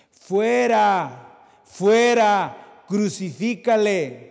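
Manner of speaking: loud cry of an angry crowd; crowd shouting. Retold or imitated. Preacher voicing the crowd's angry shout. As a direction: shout it out like the mob. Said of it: "Pero ellos gritaron".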